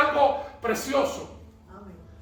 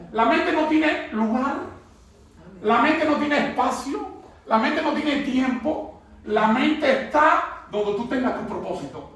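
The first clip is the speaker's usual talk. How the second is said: rising, rhythmic pulpit cadence; preacher building a refrain to the church; preaching; 3 semitones higher than usual. Acted. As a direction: build the repeated lines like a refrain.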